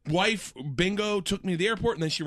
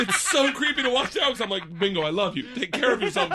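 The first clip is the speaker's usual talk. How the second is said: laughing; 5 semitones higher than usual. Real, not acted. Laughing at own memory.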